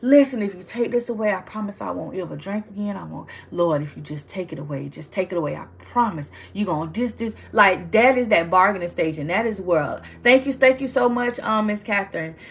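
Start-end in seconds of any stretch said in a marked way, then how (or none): 0.0-7.3 a mock desperate prayer, begging and promising; pleading prayer. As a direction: imitate someone bargaining desperately with God. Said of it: "one of those persons like".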